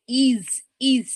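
slow "is" with an S ending; correct "is". Shown as a demonstration. Teacher modelling for students, slow "is" with final s. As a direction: stretch "is" and finish it on s. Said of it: "স, স sound.".

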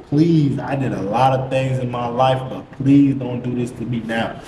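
earnest bargaining plea; retold desperate prayer; praying for himself. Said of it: "I'm trying to pray for myself".

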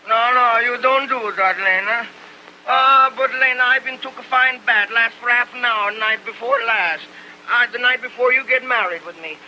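put-on squirm and protest in an Italian accent. Tony protests as Lena scrubs him, flustered Italian accent.

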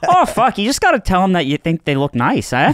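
Canadian attempt drifting towards Australian; botched Canadian accent. Retrying the impression for laughing co-hosts, wobbly Canadian accent. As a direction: try a friendly Canadian bro and miss. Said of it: "That's Australian".

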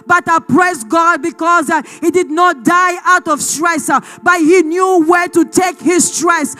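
forceful sermon delivery, building in intensity; impassioned preaching. Real, not acted. Preacher urging the congregation to take fear to God, impassioned. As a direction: preach it with insistent, punched phrases.

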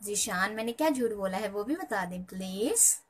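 pointedly sweet request; asking very sweetly. Real, not acted. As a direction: ask ever so nicely, with an edge. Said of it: "बड़े प्यार से पूछ रही हूँ".

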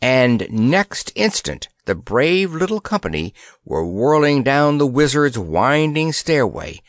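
ordinary delivery, nothing marked

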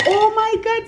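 high squeaky mock gasp of alarm; mock shock. Mom realizes daughter ate the chetos, high mock alarm. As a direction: pitch it way up in mock panic. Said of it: "Era de".

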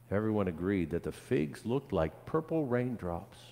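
put-on lively, rhythmic listing for children; storybook read-aloud. A narrator's reading. Pastor reads of children tending a tree, lively storytelling. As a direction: read it as an unfolding tale.

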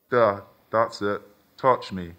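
slow, synthetic robot voice; computerized voice. Acted. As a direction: speak like a seductive sex robot. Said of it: "in a voice that was familiar but computerized".

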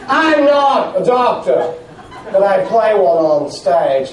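slow grand stage delivery; Shakespearean actor voice. Shown as a demonstration. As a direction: declaim it like an old stage actor. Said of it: "in your best Shakespearean actor voice".

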